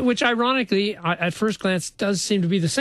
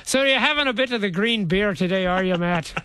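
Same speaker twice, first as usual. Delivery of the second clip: teasing question in an Irish brogue; light, playful Irish lilt; put-on Irish accent. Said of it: "pull this Irish accent out".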